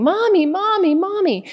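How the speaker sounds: put-on high, loud wailing call of a desperate child; imitating a screaming little girl. Mother teaching a lesson on the beach, girl calls her in a high loud wail. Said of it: "she kept just screaming".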